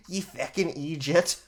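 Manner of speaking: lightly put-on Irish accent; Irish accent drifting into pirate. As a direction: do a rough mock Irish accent. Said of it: "in an Irish accent".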